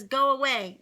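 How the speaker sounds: big sister yelling at a pest; annoyed shout. Acted. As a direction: shoo off the kid sister. Sister shouting at younger sibling.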